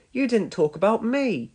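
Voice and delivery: high, indignant little engine; high-pitched put-out engine; Thomas. A narrator's reading. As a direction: complain in a high voice at being overlooked. Thomas protests at being left out.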